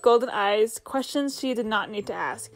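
even storybook narrator read; story narration. A narrator's reading. Narrator reading the story to viewers, storybook tone.

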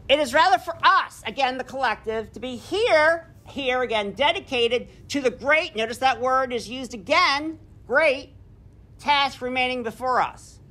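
measured speech read aloud; lightly declaimed speech; oratorical reading. Acted. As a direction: read it like a solemn address. Reads Gettysburg Address aloud.

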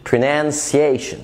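"pronunciation" with "see-ay" in place of "shee-ay"; careful teaching "pronunciation", c said as s; sia sound demonstrated. Shown as a demonstration. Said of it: "بيتنطق سيا".

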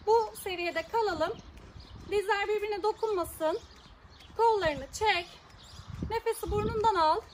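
jogging in place while coaching; while running. Real, not acted. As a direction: talk while running on the spot. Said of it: "koşuyorum".

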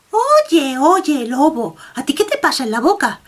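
a hint of a curious little rabbit.

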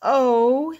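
high, amazed; breathless surprise. Acted. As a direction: let it take your breath. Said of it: "took his breath away".

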